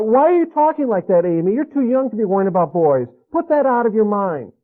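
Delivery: dismissive father. Retold or imitated. Father brushing off daughter's talk of boys, scolding. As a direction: wave off her worries like a stern dad.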